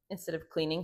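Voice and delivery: burp slipping into speech. Real, not acted. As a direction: talk through a small burp. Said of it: "I'm totally burping the mic".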